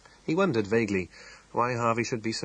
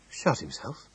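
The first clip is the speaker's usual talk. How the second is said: repeated slowly; 3 semitones higher, slower than usual. Acted. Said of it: "he repeated slowly".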